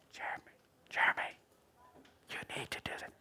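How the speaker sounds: a mock mystery voice calling Jeremy; spooky whisper. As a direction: hiss it like a voice in the dark. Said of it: "You don't hear it like a whisper".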